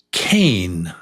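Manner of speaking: hushed quiz word; whispered test word. Shown as a demonstration. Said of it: "I'll say one of these two words".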